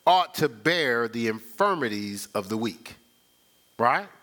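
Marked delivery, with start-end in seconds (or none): 0.1-3.0 slow, measured reading of the verse; slow solemn Bible reading; scripture reading. Real, not acted. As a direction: read it out slowly, weighing each word. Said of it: "It says".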